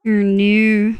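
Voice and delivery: restrained Australian "Oh, no"; lightly stylised Australian "Oh, no"; Australian accent. Shown as a demonstration. Streamer testing how others hear Australians, lightly stylised Australian accent. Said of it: "he is the Australian accent".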